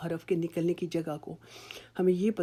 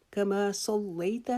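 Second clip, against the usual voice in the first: slow correct reading; much slower than usual. Shown as a demonstration. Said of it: "اس کو جلدی سے کما صلیت نہیں پڑھیں گے".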